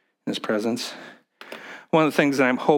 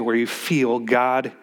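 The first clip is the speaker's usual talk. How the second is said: slow down and press "feel" in "where you feel God"; stress on feel; slower than usual. Shown as a demonstration. Pastor stressing feel to a counselee, slow and pressed. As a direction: lean on the word feel, drawn out slowly. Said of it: "and I, I emphasize feel".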